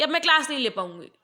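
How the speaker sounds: fast, mildly cross demo; suddenly angry. Shown as a demonstration. Teacher fed up with chattering students, mock angry and quick. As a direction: rush out an annoyed refusal. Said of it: "एकदम गुस्सा हो गई हैं".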